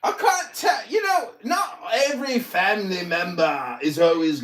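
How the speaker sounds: lecturing in a put-on English accent; mock English accent. Roasting Tuna Boy's family, in a fake English accent. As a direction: sermonize with mock posh English scorn. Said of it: "my English accent is so mocking".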